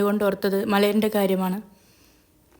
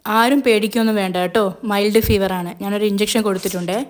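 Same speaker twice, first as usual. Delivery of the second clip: reassuring; 3 dB louder than usual. Acted. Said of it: "സമാധാനിപ്പിക്കും പോലെ പറഞ്ഞു".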